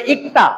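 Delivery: ইকতা said ik-ta, no l; ইকতা with only the k before ta; silent ল. Shown as a demonstration. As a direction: leave out the l in ইকতা. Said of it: "আগে কিন্তু উচ্চারণ হয় নাই".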